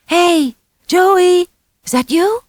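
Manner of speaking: high, loud call into the wind; yelling. A narrator's reading. Little boy calling for his missing brother in a storm. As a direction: shout out for him. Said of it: "he yelled".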